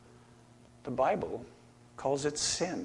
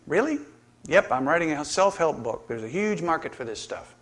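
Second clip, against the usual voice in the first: lightly voiced cartoon dialogue; 3 semitones higher than usual. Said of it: "Hobbes asked him".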